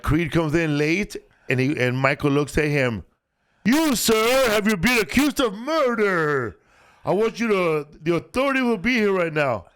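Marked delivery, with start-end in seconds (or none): 3.6-9.7 put-on Southern accent. Michael in Southern accent scene.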